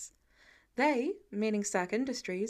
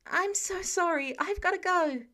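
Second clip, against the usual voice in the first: hurried apology; 7 semitones higher than usual. A narrator's reading.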